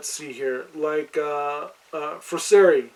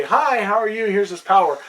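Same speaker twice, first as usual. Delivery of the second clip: higher, louder mock hello; mock friendly greeting; 4 semitones higher, 4 dB louder than usual. Game master mimicking gods dropping in, mock chummy greeting. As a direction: play a god casually handing out gifts.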